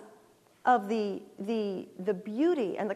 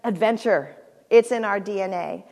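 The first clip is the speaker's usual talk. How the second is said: ad slogan; 7 dB louder than usual. Retold or imitated. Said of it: "the advertisement was a big two thousand sixteen Land Rover".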